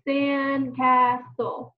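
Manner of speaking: "sandcastle" drawn out syllable by syllable; stretched syllables. Shown as a demonstration. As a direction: stretch "sandcastle" into sand, cas, tle. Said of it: "thinking about the syllables".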